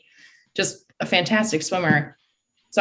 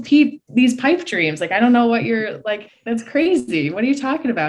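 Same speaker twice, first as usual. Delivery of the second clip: incredulous protest; 5 semitones higher than usual. Retold or imitated. Swimmer to coach about making top sixteen, incredulous. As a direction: push back as if the idea is absurd.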